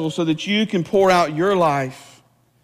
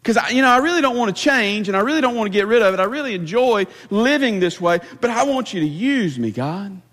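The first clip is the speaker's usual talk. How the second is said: higher, pleading mock prayer; mock whiny believer; 5 semitones higher than usual. Preacher mocking a churchgoer's selfish prayer, high pleading whine. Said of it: "that's kinda how we expect God to use us".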